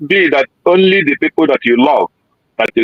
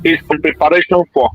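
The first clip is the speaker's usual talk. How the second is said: choppy bad-signal call audio; breaking up. Real, not acted. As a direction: voice cutting in and out. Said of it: "You are breaking up".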